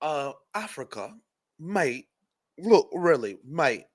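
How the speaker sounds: soft mock British "mate"; half-hearted Brit apologizing softly; mock British accent, softly done. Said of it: "so it's gonna go like this".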